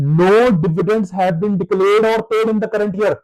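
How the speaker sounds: very slow, word-by-word reading; deliberate dictation pace; reading the question aloud. Shown as a demonstration. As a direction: read it out slowly to the class. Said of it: "question ने बोल दिया".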